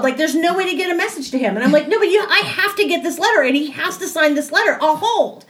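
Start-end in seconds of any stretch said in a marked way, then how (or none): 1.9-5.4 higher-pitched, quick insistence; reenacting a refusal to give up; insistent retold plea. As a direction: push back urgently on the phone. Acting out her insistent phone plea.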